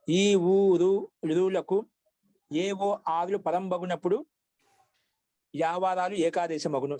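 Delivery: long drawn-out vowels, measured recital; slow rule recitation. Shown as a demonstration. Teacher reciting the Telugu grammar rule, slow recitation. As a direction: recite the rule slowly for learners.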